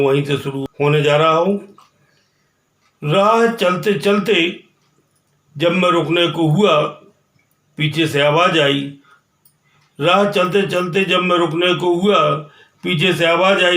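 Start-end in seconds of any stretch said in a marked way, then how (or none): 3.0-13.8 poem recitation. Acted. Poet telling of a journey, measured recitation. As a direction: recite it line by line, lifting the start.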